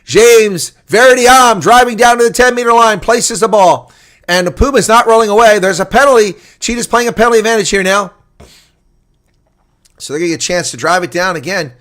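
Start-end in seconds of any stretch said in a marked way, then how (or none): 0.0-8.1 raised live rugby commentary; play-by-play call. Real, not acted. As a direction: drive the call along with play.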